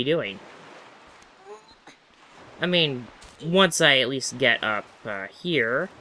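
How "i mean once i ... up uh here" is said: a hint of a bad Italian accent. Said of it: "trying to speak with a bad Italian accent".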